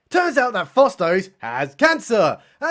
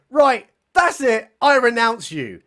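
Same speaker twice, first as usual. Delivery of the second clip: slow, raised-pitch mock outrage; mock anger; 4 semitones higher, 3 dB louder than usual. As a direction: play a pissed-off man putting his foot down. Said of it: "Batman is utterly pissed and says".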